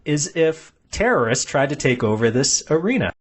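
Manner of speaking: wife's sweet suggestion. Retold or imitated. Wife nudging husband at the arena, mock-sweet. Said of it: "she nudges him and goes".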